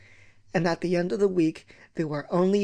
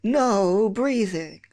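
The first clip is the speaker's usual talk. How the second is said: strict teacher order; 3 semitones higher, much slower than usual. Retold or imitated. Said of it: "once more from the beginning".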